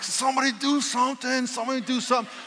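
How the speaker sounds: high, strained mock plea without shouting; barely holding it together. Stuck passenger trying not to go crazy, frantic but contained. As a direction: hold back mounting panic, pitched high. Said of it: "I'm trying not to go crazy".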